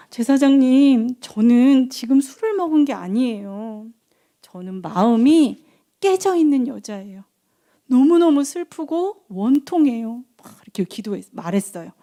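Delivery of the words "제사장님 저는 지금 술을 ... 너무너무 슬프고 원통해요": drawn-out, pleading lament; aggrieved Hannah. Acted. Hannah explaining herself to the priest, sorrowful pleading. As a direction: plead sorrowfully, acted, stretching the words. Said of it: "그러니까 한나가".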